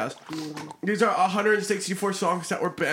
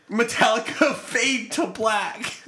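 laughing while reading; 5 semitones higher, 3 dB louder, slower than usual. Real, not acted. Reading banned songs, cracking up.

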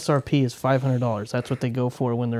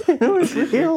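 excited disbelief; 4 dB louder, slower than usual. Real, not acted. Punchline of scam story.

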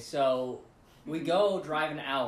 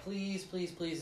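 quiet pleading; 3 semitones higher, 7 dB quieter, slower than usual. Retold or imitated. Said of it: "this is part of my praise".

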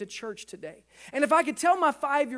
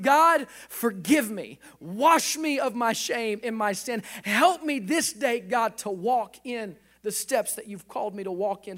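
model prayer. Shown as a demonstration. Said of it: "Ask him".

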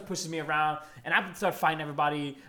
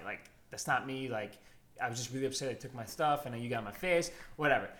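low, soft, contrite recital; subdued apology; 7 semitones lower, 7 dB quieter than usual. Retold or imitated. Storyteller reciting his apology to Sheena, low and subdued. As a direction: recite a sorry note quietly, voice dropped.

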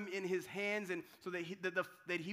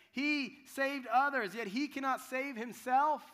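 higher, louder, slow sneer; mocking priests; 5 semitones higher, 6 dB louder than usual. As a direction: drag out the scorn like a smug priest. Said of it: "they mocked him, saying".

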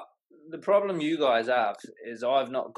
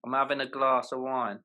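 British with a long AH in "glass"; British demo, open "glass" vowel; British accent. Shown as a demonstration. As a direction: model it in British, "glass" as glahss. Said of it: "all the posh Ponzi people".

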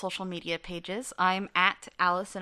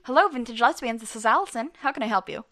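higher, louder polite phone greeting; customer service voice; 4 semitones higher, 5 dB louder than usual. Shown as a demonstration. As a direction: sound fake-friendly answering the phone. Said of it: "that's what we sound like when we're being fake".

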